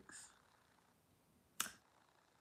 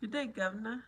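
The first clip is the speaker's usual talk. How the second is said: mock British accent; faster than usual. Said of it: "in a British accent".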